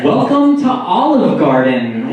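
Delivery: slow restaurant-host welcome, lightly put on; measured mock welcome; mock host greeting. First take of restaurant greeting.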